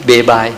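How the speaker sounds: เบบาย said as bay-bye; wrong reading. Shown as a demonstration. Translator showing another wrong way, เบบาย as bay-bye. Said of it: "หรือว่า".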